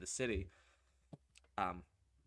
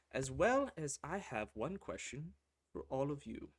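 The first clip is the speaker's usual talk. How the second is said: gracious leader; 3 semitones higher, 3 dB louder than usual. Acted. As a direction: address them with calm authority. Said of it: "and he says".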